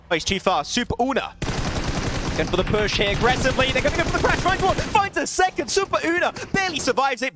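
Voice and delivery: fast esports casting, rising on big plays; live play-by-play. Acted. Caster calling Svan's clutch for stream viewers, hyped play-by-play. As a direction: call the fight like a live caster.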